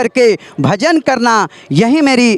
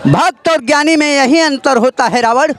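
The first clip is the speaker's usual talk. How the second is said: stern epic hero addressing a villain; dramatic Ram dialogue. Acted. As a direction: deliver it like a righteous god-king rebuking his foe. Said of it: "उस समय का है dialogue". (नाटकीय राम संवाद)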